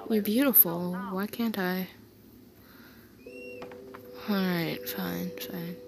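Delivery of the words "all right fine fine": soft, giving-in whisper; hushed fond surrender; resigned whisper. Acted. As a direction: whisper it as you give in. Giving in to partner.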